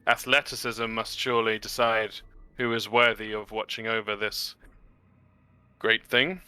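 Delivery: pompous wise traveler. Acted. The speaker in character, pompous speech.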